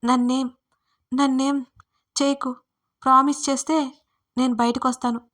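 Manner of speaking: pleading shout through the door; shouting from inside. Acted. Frightened woman shouts a bargain to David through the door. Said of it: "లోపల నుంచి గట్టిగా అరిచాను".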